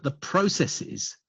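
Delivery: "processes" drawn out slowly and set apart; slow, deliberate weight on "processes"; stress on processes. Real, not acted. Webinar presenter flags a key term for attendees, stressing "processes". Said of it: "notice I emphasize the words".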